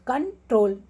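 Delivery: कंट्रोल broken before ट्रोल; teacher's demo, कंट्रोल in two beats; stress on ट्रोल. Shown as a demonstration. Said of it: "ट्रोल पे हमारा stress आ रहा है".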